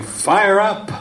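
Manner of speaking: high, shouted rally cry; cheering call. Retold or imitated. Lady in the back pipes up, high cheering shout. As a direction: rouse the room like a cheerleader. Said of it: "she starts saying".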